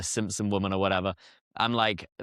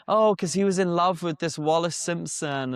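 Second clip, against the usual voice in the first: higher-pitched mock-romantic parroting; mocking everyone's version; 7 semitones higher than usual. Guest doubting the royal love story, mocking imitation. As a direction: parrot the popular story dismissively. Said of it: "'cause everyone says".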